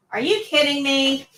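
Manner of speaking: exasperated sigh, then an irritated snap at a patient; bad tone of voice. Shown as a demonstration. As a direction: show a rude, fed-up tone. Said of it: "That is not a good tone of voice".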